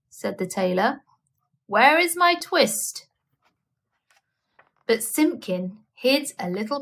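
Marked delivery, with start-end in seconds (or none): 1.7-3.1 high, slow, anxious asking; pleading question. A narrator's reading. Tailor anxiously asking Simpkin where his twist is, high and slow. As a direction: ask the cat in worried disbelief.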